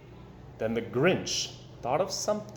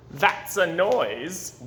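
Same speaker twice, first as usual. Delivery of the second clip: grinning Grinch; 4 dB louder, much slower than usual. Acted. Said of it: "grinned the Grinch".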